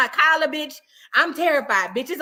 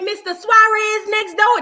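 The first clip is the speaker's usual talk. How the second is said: high, loud incredulous question; shocked question; 7 semitones higher, 7 dB louder, slower than usual. Retold or imitated. Teacher asks student which teacher was beaten, shocked question. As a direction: pitch it way up in acted shock.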